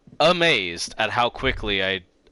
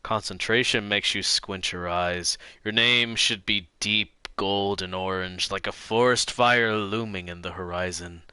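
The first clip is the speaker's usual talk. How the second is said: calm narrator read of game text; game narration read; 3 dB quieter than usual. Acted. Streamer reading the detective game text aloud, calm narration. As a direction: read the scene to viewers, calm and even.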